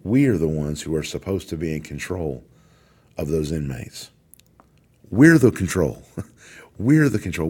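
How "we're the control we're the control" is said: louder and higher, punching every word; emphatic shout. Real, not acted. Warden rallying his officers, declaring it loudly. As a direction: shout it out to the room so it lands.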